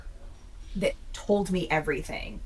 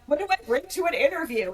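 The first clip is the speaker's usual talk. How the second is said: high, loud mock sobbing question; mock sobbing wail; 9 semitones higher, 4 dB louder than usual. Veteran retelling crying to roommate, mock sobbing. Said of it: "snot bubble crying".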